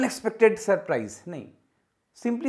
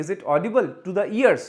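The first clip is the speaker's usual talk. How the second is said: slow, louder wrong question; wrong example, slow; 6 dB louder, much slower than usual. Shown as a demonstration. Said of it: "वो नहीं होगा".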